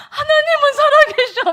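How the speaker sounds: very high, loud imitation of an ecstatic son; hammed-up boyish wail of joy; overjoyed proclaiming. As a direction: cry it out between laughing and tears. Son exclaiming over the parcel.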